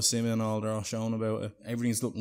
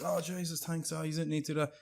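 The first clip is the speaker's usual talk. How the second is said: higher-pitched put-on thanks; acted grateful surprise; 7 semitones higher than usual. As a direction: gush lightly in mock gratitude. Acted thanks on getting a wrapped gift.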